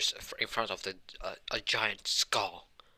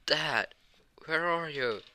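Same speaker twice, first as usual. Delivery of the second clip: calling out; 6 semitones higher, much slower than usual. Acted. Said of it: "Then he screamed".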